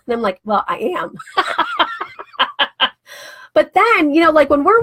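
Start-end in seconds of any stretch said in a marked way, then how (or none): 0.4-1.2 laughing. Real, not acted. Jokes back at car salesmen. 1.2-2.9 high burst of giggling laughter; laughing at her own cheeky brag; real laugh. Real, not acted.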